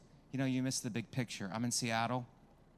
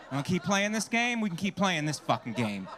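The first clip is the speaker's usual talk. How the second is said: higher and louder, laughing through it; mock challenge; 4 semitones higher, 4 dB louder than usual. Comic daring his vegan date, loud and laughing. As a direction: dare her to keep going.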